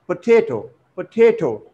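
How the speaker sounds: "potato" twice as po-TA-to; stress on second syllable. Shown as a demonstration. Teacher repeating the correct word, stress on second syllable. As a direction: lean on the middle of each "potato". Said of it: "stress falls on the second".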